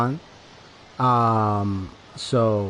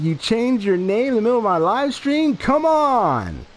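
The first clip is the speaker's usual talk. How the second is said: pushed up high, incredulous exclamation; raised voice; 10 semitones higher than usual. Shown as a demonstration. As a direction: raise the voice as far as it goes, mostly by pitch. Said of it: "That's as loud as I can get".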